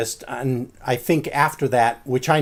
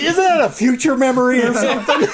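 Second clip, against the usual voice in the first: mock high voice; 10 semitones higher, 4 dB louder than usual. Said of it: "I was like".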